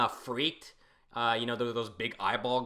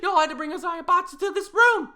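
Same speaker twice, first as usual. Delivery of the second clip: laughing; 12 dB louder than usual. Real, not acted. Laughing reaction to the scene.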